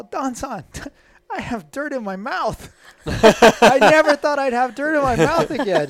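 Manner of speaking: high, loud, half-crying with laughter; hysterically giddy retold cry; imitating hysterical laughter. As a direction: imitate a friend cracking up too hard to talk. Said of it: "he's laughing. He can't even talk".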